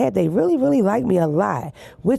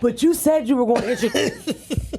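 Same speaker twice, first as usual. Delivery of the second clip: whiny sidekick; 5 semitones higher than usual. Retold or imitated. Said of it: "he's like".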